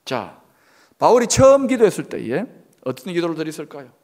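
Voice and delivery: ordinary talk, nothing marked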